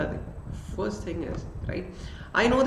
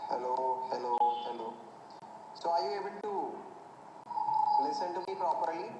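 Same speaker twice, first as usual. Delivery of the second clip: much softer, drowned by a bad line; faint connection; 13 dB quieter than usual. Real, not acted. Teacher checking if students hear him, faint. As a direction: voice fading over a weak mic. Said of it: "is my voice breaking".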